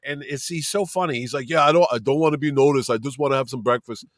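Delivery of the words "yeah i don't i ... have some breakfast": lightly put-on muscleman voice; a hint of a famous bodybuilder, dropping lower at the end; Arnold Schwarzenegger Ferrigno voice. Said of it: "That's my Arnold Schwarzenegger Ferrigno voice".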